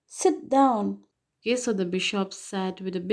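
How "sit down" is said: stern command. Acted. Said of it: "the convict said".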